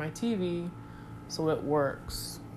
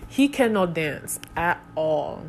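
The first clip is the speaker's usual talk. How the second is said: put-on African accent. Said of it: "channeling her in her quirkiness".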